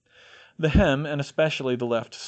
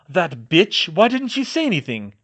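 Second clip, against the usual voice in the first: angry; 6 semitones higher, 7 dB louder than usual. A narrator's reading. George enraged at Bellatrix.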